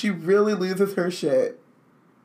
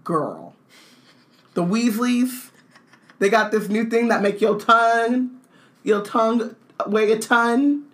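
sassy gossip; 4 semitones higher, 3 dB louder than usual. Pretend. McGonagall voiced gossiping.

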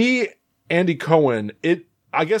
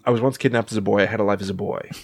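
Dan Aykroyd-esque; 6 semitones lower, faster than usual. Retold or imitated. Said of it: "It was very Dan Aykroyd-esque".

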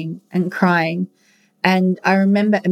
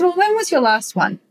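higher, gentle doctor's voice; higher gentle doctor asking about a last test; doctor's question; 8 semitones higher than usual. Retold or imitated. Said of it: "And she goes".

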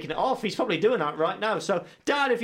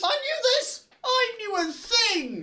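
proud mock boast; slower than usual. Proud to know the fact.

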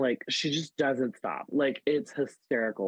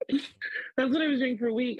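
words spill out through laughter, higher; laughing; 12 semitones higher than usual. Real, not acted. Telling a podcast host about lockdown drag, laughing.

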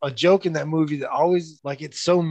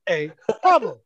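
slow menacing tough guy; drawn-out movie threat; 3 semitones higher, 3 dB louder, slower than usual. Retold or imitated. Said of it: "the missile scene".

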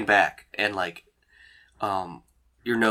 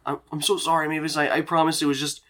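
embarrassed Dean; 5 semitones higher than usual. Acted. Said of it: "he looks so embarrassed".

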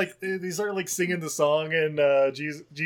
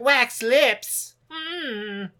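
high, loud blurt then a hum; mock scene reenactment; 7 semitones higher, 5 dB louder, much slower than usual. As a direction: announce it, then hum through shut lips. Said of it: "do a reenactment of the scene".

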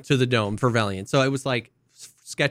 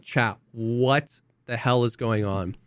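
retold bewilderment; 3 semitones lower, 4 dB quieter, slower than usual. Bewildered aside to chat, retold.

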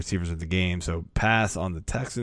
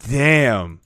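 ordinary delivery

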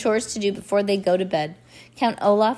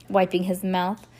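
plain reading voice

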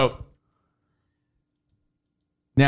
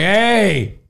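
raised, higher trash-talk; mock taunting yell; 6 semitones higher than usual. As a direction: square up and boast at him. Imagined tussle with the boyfriend.

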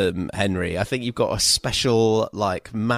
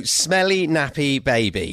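put-on horrid kid taunt; 2 semitones higher, slower than usual. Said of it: "your most horrid Henry voice".

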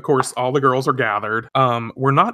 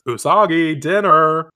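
calling out; 4 semitones higher, 4 dB louder, slower than usual. Acted. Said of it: "she hears".

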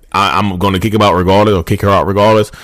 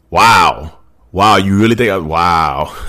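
feigned hurt; 4 semitones lower, much slower than usual. Acted. Acted gaslighting, feigning hurt.

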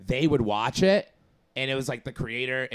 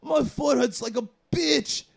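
high, slow whiny complaint about his foot; imitating the neighbor; 9 semitones higher, slower than usual. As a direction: whine like a sick neighbor, pitched up. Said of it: "He's like".

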